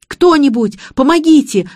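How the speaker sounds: high, loud panicked cry; loud frantic call; yelling for help. A narrator's reading. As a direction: shout for help to the street. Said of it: "вопил Игорь".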